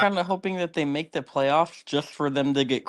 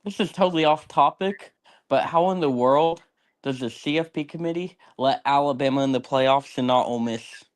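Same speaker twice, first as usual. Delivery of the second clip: blocked nose, muffled voice; stuffed up. Real, not acted. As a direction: talk like a congested head cold. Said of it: "I'm all stuffed up".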